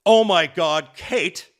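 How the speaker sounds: loud, high-pitched outburst to startle her; mock alarm. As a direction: cry out as if something is terribly wrong.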